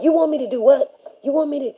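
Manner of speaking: high, disbelieving "you want me to do what"; incredulous teacher. Retold or imitated. Teacher scoffing at a student's request, incredulous. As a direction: throw the question back in disbelief. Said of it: "she was like".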